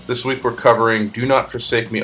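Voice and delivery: ordinary talk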